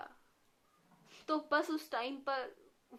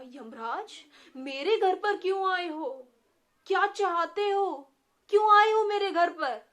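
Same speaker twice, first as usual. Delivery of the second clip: panicked cry, much louder and higher; terrified; 7 semitones higher, 9 dB louder than usual. A narrator's reading. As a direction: shout in terror at the intruder. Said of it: "Shamu बहुत बुरी तरह से डर गया".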